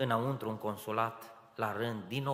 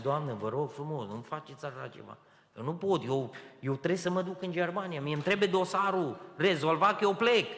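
pleading, climbing higher and louder to a near cry; desperate pleading; 6 semitones higher, 6 dB louder than usual. Retold or imitated. Young man begging the consulate clerk, rising desperate plea. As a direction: beg her as the hope slips away, rising to a high loud plea.

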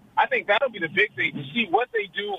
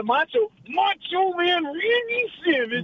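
high, slow Macho Man growl; 9 semitones higher, slower than usual. Retold or imitated. Imitating Macho Man's intro.

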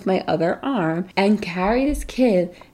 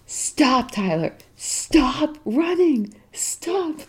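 retold calling out; 7 semitones higher, much slower than usual. Mom yelling after running kids.

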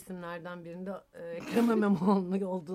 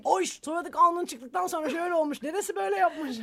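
lightly voiced child, higher and louder; 8 semitones higher, 7 dB louder than usual. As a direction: mimic her little kid explaining. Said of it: "Diyor ki".

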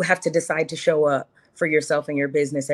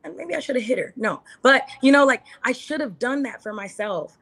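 higher, regretful rant to herself; frustrated teen self; 4 semitones higher than usual. Retold or imitated. Woman voicing her teen self's regret: higher, exasperated rant. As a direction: replay your high-school self, fed up and kicking yourself. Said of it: "you're like".

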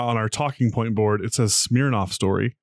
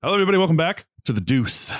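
higher-pitched, upbeat welcome; perky show intro; 4 semitones higher, faster than usual. Acted. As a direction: greet the audience with put-on pep. Perky redo after miserable remark.

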